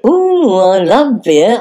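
a high delighted ooh, slow love; thrilled at the offer of beer. Acted.

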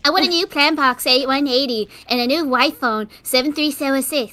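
loud spoiled brat voice; demanding little rich kid; snobby little brat. Acted. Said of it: "like a snobby little brat slash a little bit of mix of Cartman".

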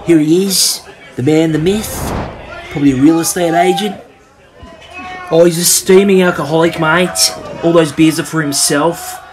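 dry, deadpan play-by-play ending on mate; mock commentator describing the beer carry; laid-back sports commentary. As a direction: call it like a weary local commentator.

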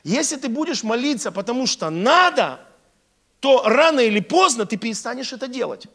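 ordinary delivery

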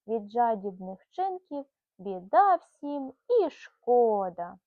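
lively rhyming storybook read-aloud; reading to a child. Acted. Mother reading a bedtime rhyme to her son, lively storybook voice. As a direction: bounce the rhymes along for a little listener.

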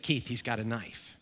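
low, hushed alarm on a mock emergency phone call; mock panic. Pastor pranking his friend with a hushed mock alarm. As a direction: fake an urgent, frightened warning over the phone.

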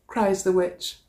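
lively storybook read-aloud; animated picture-book narration; reading to children. A narrator's reading. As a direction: read it like story time for a class. Teacher reads picture book aloud.

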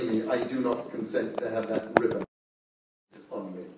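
accusing monster wolf; werewolf. Acted.

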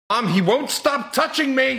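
put-on high whiny kid complaint; whiny tattling little sibling. Kids tattle to mom.

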